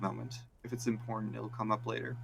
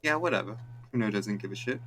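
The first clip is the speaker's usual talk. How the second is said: dismissive. Acted. Kuno dismissive.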